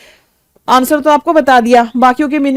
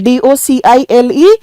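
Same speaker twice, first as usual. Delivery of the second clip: spelled letter by letter; 5 dB louder, slower than usual. Shown as a demonstration. Teacher spells out the word.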